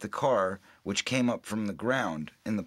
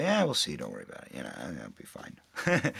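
offhand brush-off; 7 semitones lower than usual. Retold or imitated. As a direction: imitate a careless actor waving off worries. Retells brushing off director's plea.

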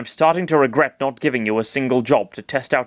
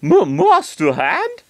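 higher, slow stammered alarm; 13 semitones higher, 4 dB louder, much slower than usual. Acted. Chris hears Master Hand in his mind, alarmed and higher. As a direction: stumble on the name in sudden fright. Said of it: "Chris said, alarmed".

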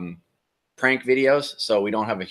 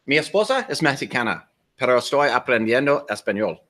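Spanish with a gringo accent; American accent Spanish. Real, not acted. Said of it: "Even though it was with a gringo accent".

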